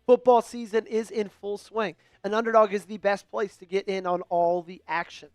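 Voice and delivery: upbeat sponsor read, even and practiced. Acted. Host reads sponsor spot to stream viewers, practiced ad voice.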